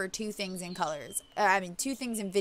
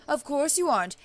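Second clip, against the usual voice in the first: higher, louder mock Jamaican witch doctor; attempted Jamaican accent; 5 semitones higher, 5 dB louder than usual. Witch doctor doubts the girl's denial, attempted Jamaican accent. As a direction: scoff in a put-on Jamaican accent. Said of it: "shoot for a Jamaican accent".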